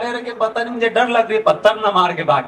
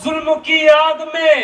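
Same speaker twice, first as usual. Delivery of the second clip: stately nazm recitation; 3 semitones higher than usual. Acted. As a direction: recite the poem with sorrowful weight. Nazm continued to end.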